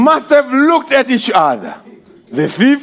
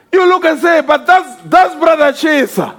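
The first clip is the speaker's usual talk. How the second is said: higher, rising preaching excitement; excited preaching; 3 semitones higher than usual. Acted. Preacher excited about resurrection.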